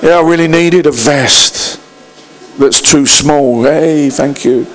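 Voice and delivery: slow, low, half-hearted mock thanks; feigned gratitude. Receiver thanking for a too-small vest, feigned gratitude. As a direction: thank them through a fake smile. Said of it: "they've put on the fake smile".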